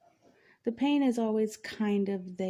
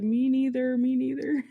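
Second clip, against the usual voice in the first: loud and laughing, higher pitch; laughing agreement; 3 semitones higher, 6 dB louder than usual. Retold or imitated. Nurse laughing along at the patient's hell joke. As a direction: burst out agreeing through a laugh. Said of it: "she busted up laughing".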